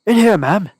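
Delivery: thin, high, squeaky male voice; a reedy voice calling from the shadows; high squeaky man. A narrator's reading. Stranger luring the lady into an alley, high and squeaky. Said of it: "high and squeaky out of the shadows".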